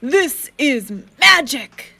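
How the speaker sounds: slow, loud, wonderstruck; father amazed at the drawing; awed. A narrator's reading. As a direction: speak it like a revelation.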